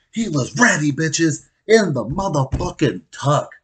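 high, loud triumphant exclamation; hyped-up bragging. Real, not acted. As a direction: proclaim it to the crowd with gusto. Hyping up Gino's readiness.

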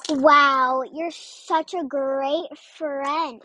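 slow, drawn-out mock praise; sarcastic. Retelling her comeback to a rude friend, sarcastic. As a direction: stretch it out with heavy sarcasm.

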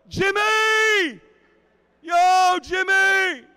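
high, loud yelled name across a party; hollering for Jimmy over the crowd; scream out. Retold or imitated. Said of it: "I scream out".

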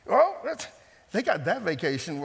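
mock-shocked envy; a hammed-up, jealous oh; mock jealous surprise. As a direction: pitch jumps high on oh, then a mock indignant line. Jealous Facebook scroller.

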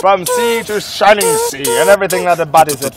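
rally the nation; mock-solemn anthem speech; grand patriotic speech. Patriotic speech over music.

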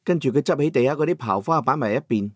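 ordinary delivery

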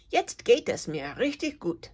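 mildly chirped, happy cricket; chirping. Acted. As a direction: cricket chirping with new cheer. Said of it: "zirpt die Grille".

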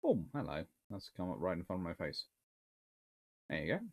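ordinary talk, nothing marked

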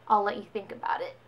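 a mock creepy whisper. Reading out her date's text, mock creepy whisper. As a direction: breathe it like a smug threat.

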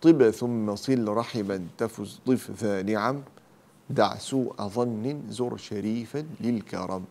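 slow, measured verse recitation; mnemonic verse. Shown as a demonstration. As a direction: recite the verse slowly, word by word. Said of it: "هذا البيت الحرف الأول من كل كلمة نقول".

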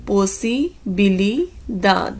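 posibilidad spoken very slowly syllable by syllable; slow teaching demo. Shown as a demonstration. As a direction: stretch posibilidad for learners. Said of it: "next word ਹੈ ਪੋਸੀਬਿਲਿਟੀ". (posibilidad ਨੂੰ ਬਹੁਤ ਹੌਲੀ ਬੋਲੋ)

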